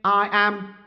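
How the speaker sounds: slow, stiff robot voice. Pretend. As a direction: speak like a clunky cleaning robot. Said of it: "your robot voice could do with some work".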